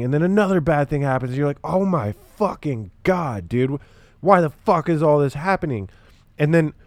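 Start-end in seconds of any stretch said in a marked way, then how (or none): 1.6-5.9 exasperated disbelief. Retold or imitated. Exasperated quote as bad things pile up.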